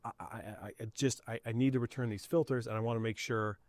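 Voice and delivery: entitled customer impression. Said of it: "she was being very kind".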